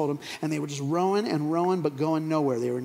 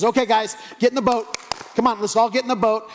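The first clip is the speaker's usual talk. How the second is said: lightly acted call, higher and a bit louder; rallying Jesus; 6 semitones higher, 3 dB louder, faster than usual. Jesus herding disciples into the boat, rallying call. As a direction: round up the group briskly.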